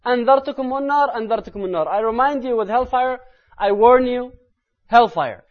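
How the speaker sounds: high, forceful pulpit cry; loud hellfire warning. Retold or imitated. Preacher re-enacts the Prophet warning from the mimbar, loud forceful voice. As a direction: ring it out, then drop the pitch on the last word. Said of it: "his voice was going louder and louder".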